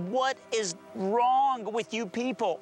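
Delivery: slow, exasperated cry of disbelief, half-shouted; retold yell. Stunned diner to his generous friends, retold yell. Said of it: "I actually yelled out loud".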